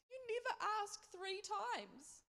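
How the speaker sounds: high, loud, drawn-out mock wail; mock sobbing. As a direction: imitate a tearful reproach, slow and high. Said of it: "sobbing and sobbing".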